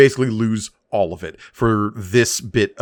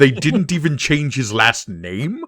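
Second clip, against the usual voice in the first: slow, higher-pitched disbelief, rising at the end; mock incredulous; 4 semitones higher than usual. Podcaster plays Vader learning his son's surname, incredulous. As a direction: stretch it into an astonished question.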